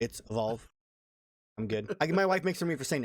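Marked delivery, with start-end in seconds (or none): 0.3-0.6 California-style Evolve with a long E; California accent. Shown as a demonstration. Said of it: "I'm from California originally".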